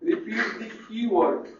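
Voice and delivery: very slow, drawn out for the class to write; slow dictation. Shown as a demonstration. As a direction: stretch each word so students can note it down. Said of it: "teacher repeats phrase then dictates". (धीरे-धीरे लिखवाते हुए)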